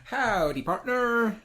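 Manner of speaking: high, drawn-out hammed cowboy howdy; repetitive cowboy greeting. Welcoming each new follower, hammed-up cowboy drawl. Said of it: "very repetitive and very irritating".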